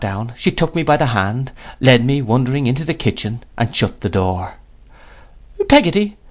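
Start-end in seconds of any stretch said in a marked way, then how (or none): 5.7-6.2 put-on high child's voice, mildly frightened. A narrator's reading. Boy to his nurse behind the shut door, frightened. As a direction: call the name high and uneasy. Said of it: "said I, quite frightened".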